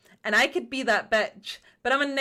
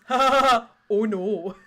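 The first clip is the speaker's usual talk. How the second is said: lightly mocked laughing teammates; put-on laugh with a mock "oh no"; voice chat mimicry; 4 dB louder than usual. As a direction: imitate teammates laughing at the panic. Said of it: "everyone else in the voice chat goes".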